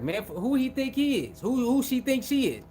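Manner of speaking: mock resentment. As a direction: mimic someone indignant at a newcomer. Voicing resentful people who were there.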